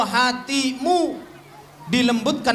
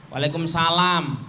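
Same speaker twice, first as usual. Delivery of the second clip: cold reply; 4 semitones lower than usual. Shown as a demonstration. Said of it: "kalau nyambut suami itu jangan dingin".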